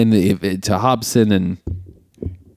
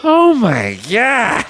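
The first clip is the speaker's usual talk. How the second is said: a long, drawn-out, much higher oh my God; slow barfly drawl; 13 semitones higher, much slower than usual. Retold or imitated. Imitating the barfly who keeps repeating himself, slow higher drawl. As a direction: stretch every word like a haggard old barfly. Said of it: "he just talks like that".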